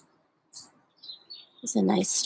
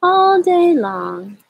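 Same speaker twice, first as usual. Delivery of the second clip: slow, drawn-out story reading; slow read-aloud; much slower than usual. A narrator's reading. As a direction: read at a sloth's pace. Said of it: "I like to read this book very slowly".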